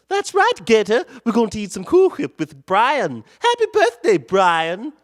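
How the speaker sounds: high teasing sing-song. Pretend. Streamer teasing a viewer over his name, sing-song. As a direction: rub it in, playfully.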